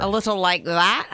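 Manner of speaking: tentative Irish lilt; Irish brogue. Shown as a demonstration. Host asking co-host to judge, tentative Irish accent. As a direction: have a light go at an Irish accent. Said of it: "It's hard to get the Irish brogue".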